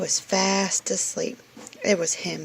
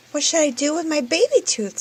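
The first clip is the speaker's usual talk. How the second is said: higher, quicker curious asking; eager question; 8 semitones higher, 5 dB louder, faster than usual. Acted. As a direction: rush it out eagerly.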